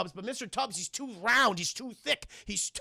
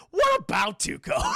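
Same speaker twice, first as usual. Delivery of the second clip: very high, loud mock shout; hammed-up outcry; 6 dB louder than usual. Retelling Blondie's question about his partner, high mock shout. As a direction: squawk the question, half laughing.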